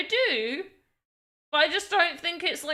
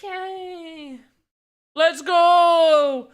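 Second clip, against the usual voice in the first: a small muted yay, then a louder let's go in a put-on voice; restrained excited; 4 semitones higher, 6 dB louder, much slower than usual. Shown as a demonstration. Streamer demos her restrained British excitement, muted cheer. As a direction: hold back your excitement, British style. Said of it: "restrained excited".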